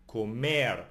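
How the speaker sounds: "comer" with the weight on the final -mer; stress on last syllable. Shown as a demonstration. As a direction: lean on the end of "comer". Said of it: "energy moves to the very end".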